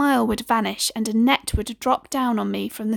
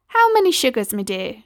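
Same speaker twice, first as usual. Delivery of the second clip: motherly neighbour; 2 semitones higher than usual. Acted. Missus Cole offers the boy tea, lightly motherly. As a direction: offer the sugar kindly. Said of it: "she asked".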